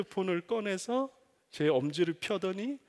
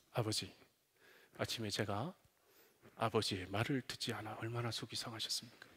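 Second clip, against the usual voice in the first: lower, softer, overly polite son; humble apologizing son; 7 semitones lower, 9 dB quieter than usual. Pretend. Imagined son apologizing to father, low and humble. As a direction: grovel politely and meekly. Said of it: "그럼 이 아이가".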